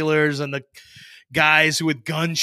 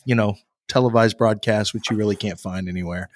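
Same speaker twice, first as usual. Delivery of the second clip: lower, gently wise fatherly voice; a hint of the consoling dad, pitched down; sage father; 4 semitones lower than usual. Comforting the heartbroken roommate like a sage father, lower and gentle. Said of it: "like some sage father".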